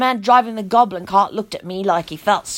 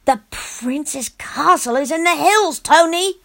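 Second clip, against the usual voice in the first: put-on firm and slow, a child scolding; a touch of stern correction; 5 semitones higher than usual. Girl corrects Tony sternly about the castle. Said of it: "I said sternly".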